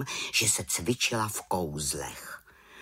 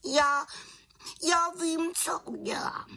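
very high-pitched, halting little witch voice; determined little witch. A narrator's reading. Little witch hits on a plan before the raven, high determined voice. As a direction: resolve aloud in a high voice, with pauses.

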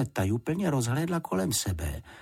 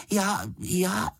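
stammered; 11 semitones higher than usual. A narrator's reading. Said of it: "zakoktal se".

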